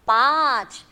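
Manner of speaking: पाँच with a nasal vowel, aa through the nose; पाँच said with nasalized aa; nasal paanch. Shown as a demonstration. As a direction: let पाँच ring in the nose. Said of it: "थोड़ा नाक में से आवाज आता है".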